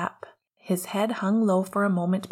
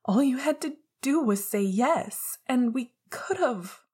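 higher, angry raised voice; louder and angrier; 6 semitones higher than usual. A narrator's reading. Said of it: "his voice louder and angrier".

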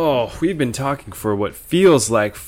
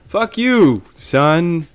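higher and louder, a mock yell; mock shouted fatherly curse; barked curse; 7 semitones higher, 5 dB louder, much slower than usual. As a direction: snap it at the kid like an angry dad.

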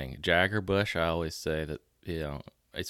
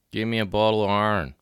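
Pittsburgh accent; 5 dB louder than usual. Shown as a demonstration. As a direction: demonstrate a Pittsburgh accent, "iron" squashed to "arn". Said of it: "just kinda the way they say it".

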